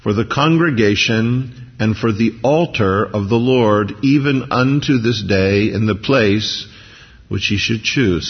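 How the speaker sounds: slow, measured Bible reading; scripture reading. A narrator's reading. Preacher reading Joshua to the congregation, measured reading. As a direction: read the verse out slowly, phrase by phrase.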